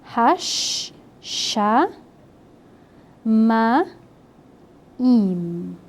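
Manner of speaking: HASH, SHA, MA, IM each set apart by pauses; syllable by syllable. Shown as a demonstration. Teacher counting out four syllables for students, Hash, sha, ma, im separated. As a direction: sound out Hash, sha, ma, im one syllable at a time. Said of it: "quatro sílabas".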